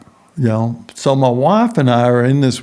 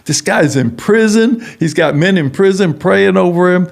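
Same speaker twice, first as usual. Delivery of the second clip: higher, disbelieving nurse voice; astonished nurse; 5 semitones higher than usual. Retold or imitated. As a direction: play her jaw dropping in disbelief. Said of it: "her mouth is just dropping open".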